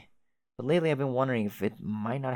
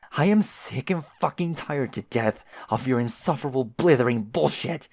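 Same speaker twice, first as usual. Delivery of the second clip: angry rant; 2 semitones higher, 4 dB louder than usual. Acted. Jane unloading on Jake, building angry rant. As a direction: spit it out, getting louder to the end. Jane vents her rage.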